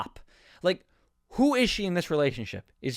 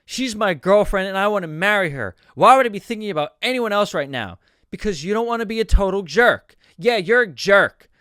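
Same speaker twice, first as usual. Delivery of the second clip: louder, hammed-up bickering; mock heated argument; 2 semitones higher, 6 dB louder than usual. Couple and best friend trade insults, mock heated. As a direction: read it like a mildly overacted row. Acted quarrel from the script.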